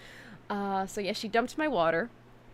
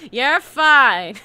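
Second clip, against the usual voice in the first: higher, louder mock-soothing voice; imitating her friend calming her in the venue; 4 semitones higher, 11 dB louder, much slower than usual. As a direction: play the friend settling her down. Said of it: "he's trying his best to wrangle me".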